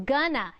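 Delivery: "gonna" as one run-together word; casual reduced "gonna"; slurred "gonna". Shown as a demonstration. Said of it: "Instead of".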